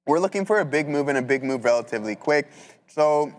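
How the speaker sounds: talking while chewing gum; gum in mouth. Real, not acted. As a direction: speak around a wad of gum. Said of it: "sorry, I have gum in my mouth".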